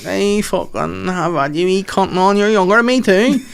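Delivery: high, ranting sister in a fury; angry rant. Retold or imitated. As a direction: yell at the brother in his lab. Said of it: "And she's like".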